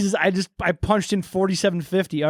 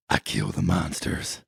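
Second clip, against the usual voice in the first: much lower, slow and soft; low deadpan retake; 7 dB quieter, slower than usual. Acted. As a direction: say it cold and slow. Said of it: "Hold on, Christopher".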